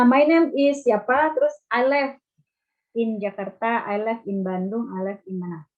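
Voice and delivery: imitating a learner who says "live" as "lef"; learner's wrong vowel in "live"; mispronounced "live". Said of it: "Salah pembacaannya atau pengucapannya".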